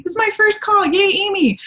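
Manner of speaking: high, cheery mock announcement; playful high-pitched little cheer; excited newcomer. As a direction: chirp it like an eager first-timer. Acts an eager newcomer's chat message.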